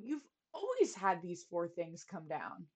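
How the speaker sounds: put-on soft, soothing page boy; gently calm the angry king. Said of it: "tried to calm him down".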